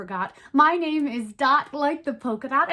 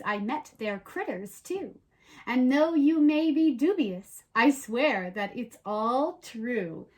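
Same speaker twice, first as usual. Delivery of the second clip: storybook read-aloud, lively and even; reading to children. Acted. Host reads the rhyming book to young viewers, in a storybook voice. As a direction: tell it like a bedtime rhyme.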